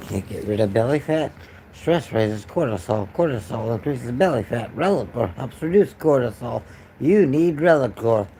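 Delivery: lightly voiced TV ad; ad read. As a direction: read it like a casual commercial. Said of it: "I'm doing a Relicore commercial".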